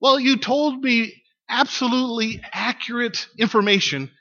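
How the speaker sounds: mildly hammed-up exasperation; called-out complaint. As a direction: call the gripe down to her. Balloonist calls down a complaint.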